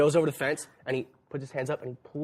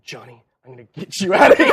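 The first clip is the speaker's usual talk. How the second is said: laughing heroic; 4 semitones lower, 13 dB louder, faster than usual. Retold or imitated. Heroic promise while laughing.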